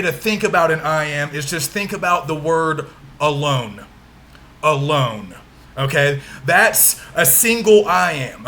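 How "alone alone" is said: "alone" with the weight on its second syllable, "-lone"; stress on second syllable. Shown as a demonstration. Teacher showing an iamb, "alone" stressed on its second syllable. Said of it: "We emphasize the second syllable".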